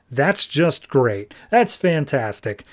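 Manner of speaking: slow, drawn-out mock praise; lightly acted weary sarcasm, dragging the words; sarcastic exasperation. Batman on his panicking secret weapon, sarcastic exasperation.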